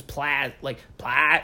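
PLA with A as in "cat"; isolated "pla" with a short front A; flat regional A. Shown as a demonstration. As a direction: say "pla" as "plaa", not "plah". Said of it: "instead of ah".

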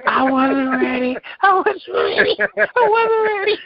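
high squeal through real laughter; laughing too hard to talk, pitch way up; helpless laughter. Real, not acted. Host floored by a comic piece, helpless laughter. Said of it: "I'm laughing so hard".

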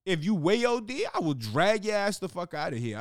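high, loud angry threat; mock furious threat. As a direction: threaten to drag the man out. Threatening an unruly patient.

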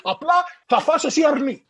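a fussing Greek host pushing food, lightly voiced; insistent Greek host.

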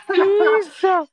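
high, loud laugh ending in a squeal; laughing hard. Real, not acted. Telling a friend the story, laughing loud and high. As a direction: crack up at your own story.

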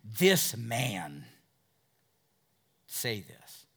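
slow, scornful "Well, how can this man"; a scribe scoffs slowly at Jesus; derogatory. Retold or imitated. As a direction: drag it out with disdain. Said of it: "you can picture him going".

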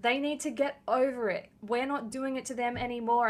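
mock indignant yelling. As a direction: yell it defensively, mocking the complainers. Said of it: "yell at me being like".

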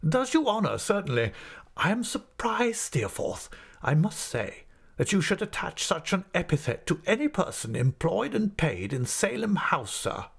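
high, measured, condescending headmaster; reproving schoolmaster. Acted. Headmaster tells Steerforth he is surprised, condescending. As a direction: reprove a favourite with pompous courtesy. Creakle reproves favourite pupil.

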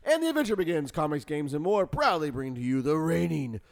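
ringmaster. Acted. Announcer build up.

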